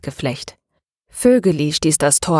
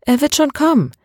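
firm, much higher insistence; emphatic; 9 semitones higher than usual. A narrator's reading. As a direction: stress it with conviction. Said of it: "ergänzte er nachdrücklich".

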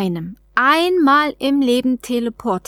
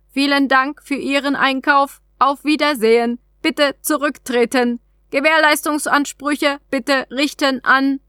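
a slightly raised, even machine voice for the capsule; lightly voiced alien vending machine; alien trade capsule; 4 semitones higher than usual. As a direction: read it like a polite automated terminal.

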